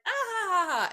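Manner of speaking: high, loud embarrassed laugh; mock awkward laugh. Siblings told to kiss, laughing loud and high. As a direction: laugh like siblings caught off guard. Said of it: "they're always like".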